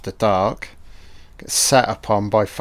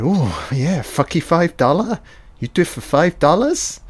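higher, lightly voiced teasing Keith; mock Keith voice; 5 semitones higher than usual. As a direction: pitch it up like a cheeky punk. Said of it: "Keith's like".

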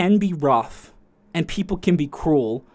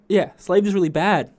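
mock shopkeeper. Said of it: "She said it like that".

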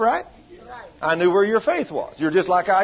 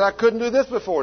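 retold hollering; 6 semitones higher than usual. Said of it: "then she started hollering".

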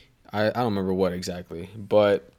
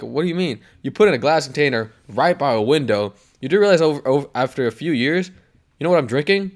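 smug teacher; 4 semitones higher, 4 dB louder than usual. Retold or imitated. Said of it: "He's like".

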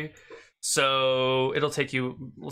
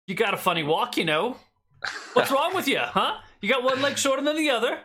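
high mocking yokel voice, pitched way up; heckling old farmer; 10 semitones higher than usual. Old farmer mocks the traveller's walk, high jeering voice. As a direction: jeer at the stranger's walk. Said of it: "an old hillbilly farmer".

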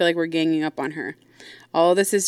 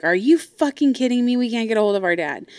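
outraged sisters; 5 semitones higher than usual. Retold or imitated. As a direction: voice the sisters blowing up. They're like.

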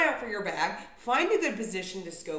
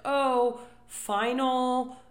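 gate agent mimic; 3 semitones higher, 6 dB louder than usual. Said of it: "when the gate agent says".

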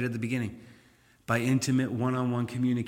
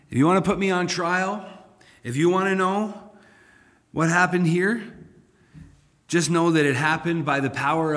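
1 bold accusation; 3 semitones higher, 4 dB louder than usual. Pretend. Preacher voicing Peter's bold accusation.

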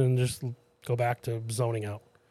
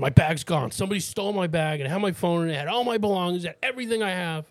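retold distress; 4 semitones higher than usual. Acting out robbed stranger's complaint.

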